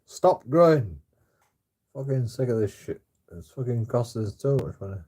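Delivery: retold parental complaint; mock parent scolding. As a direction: snap like a fed-up parent, then grumble on. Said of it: "my mum and dad used to say that".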